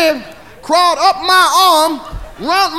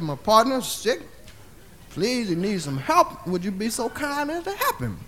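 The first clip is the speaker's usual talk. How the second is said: soft pleading; 4 semitones lower, 9 dB quieter than usual. Retold or imitated. Asking the woman to help his sick partner, soft pleading. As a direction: beg her gently and quietly.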